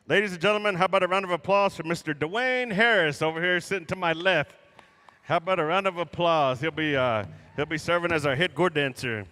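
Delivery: loud arena announcer call; rally the crowd for applause; powwow emcee. Real, not acted.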